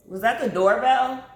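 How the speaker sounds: startled, high and loud; sudden alarmed question; surprised. Real, not acted. Hears doorbell, calls out.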